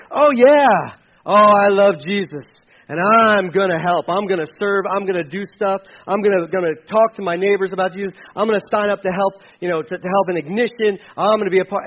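loud, eager mock pledging; eager promises. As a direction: gush promises you won't keep. Mocking an all-talk believer.

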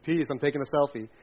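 breezy, careless selfie peace; mock hippie peace. A hippie posing for a selfie, light and careless. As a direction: toss off "Peace" like a casual hippie. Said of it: "And not like hippie peace".

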